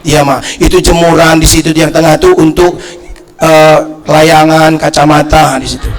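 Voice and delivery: low, even-toned list of instructions; lightly voiced mother giving chores; understated imitation of a patient mother; mother instructing child. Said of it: "mak saya bilang itu".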